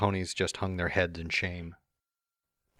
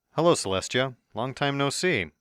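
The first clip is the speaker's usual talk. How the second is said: cocky, higher smirking greeting; 5 semitones higher than usual. Acted. The returning visitor teasing the startled princess, smirking. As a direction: tease her with a knowing grin. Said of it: "I said with a smirk".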